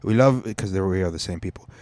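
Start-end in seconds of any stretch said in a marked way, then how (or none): 0.0-0.4 put-on Arabic accent, high greeting at first. Palestinians welcoming newcomers, in a mock Arabic accent. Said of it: "I'll do an Arabic accent".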